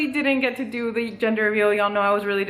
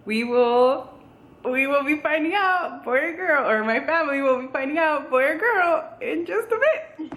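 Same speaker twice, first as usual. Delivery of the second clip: high, giddy build-up; teasing the big reveal; excited; 4 semitones higher than usual. Real, not acted.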